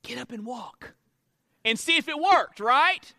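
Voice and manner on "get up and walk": much softer, hesitant "Get up and walk."; half-hearted soft command lacking faith; timid quiet command. Shown as a demonstration. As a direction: say "Get up and walk." under your breath, unsure. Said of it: "I might have said it a little bit quieter".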